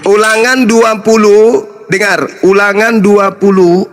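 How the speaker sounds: insistent announcement. Real, not acted. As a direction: call out the reference to claim the floor. Calling out over interruptions.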